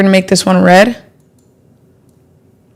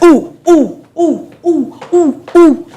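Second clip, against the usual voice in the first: excited hooting; 7 semitones higher, slower than usual. Real, not acted. Celebrating the chart move.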